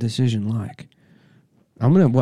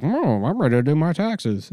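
high, square white-guy voice; hammed-up white-guy voice, pitched up; mock white guy; 6 semitones higher than usual. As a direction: do a black comic's impression of a white guy. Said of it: "black guy doing a white guy".

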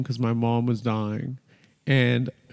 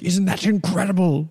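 higher-pitched, mildly thrilled dad voice; delighted dad; 6 semitones higher than usual. Retold or imitated. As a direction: imitate a proud, amazed father. Retells dad's delighted reaction.

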